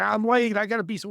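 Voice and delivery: mock the rushed lady's frantic excuse; impatient complaint. Impatient shopper in grocery line.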